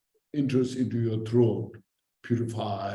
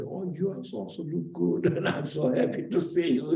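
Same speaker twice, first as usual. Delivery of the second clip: high, laughing warm greeting back; high, giggly happy reply; laughing friendly reply; 5 semitones higher than usual. Retold or imitated. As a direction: return the compliment through a laugh. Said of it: "And your friends say".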